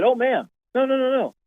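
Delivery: high-pitched, reassuring string of noes; retold eager reassurance. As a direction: imitate a worker rushing to reassure a customer. Employee reassures frustrated shopper.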